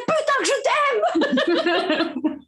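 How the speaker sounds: high, slow, laughing cry of self-love; mock shout of love. Woman yelling her self-love out the window, laughing. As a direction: belt it out while laughing. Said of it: "t'es déjà vu crier".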